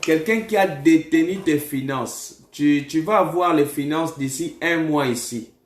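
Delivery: emphatic prophecy, pushed slightly above conversational pitch; prophetic preaching. Real, not acted. Prophet tells a caller who blocks the finances, emphatic preaching. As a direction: declare the vision with force.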